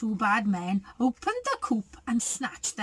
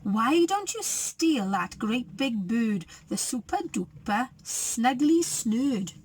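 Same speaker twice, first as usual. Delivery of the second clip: hissing goose. Acted. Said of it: "she hissed at them".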